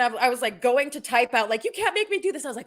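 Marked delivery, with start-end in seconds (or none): 1.6-2.5 high-pitched retold protest; mock protest. Co-host retelling the reply she nearly typed, mock protest. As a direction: playact a pleading refusal, pitched way up. Acts out reply planned for poll.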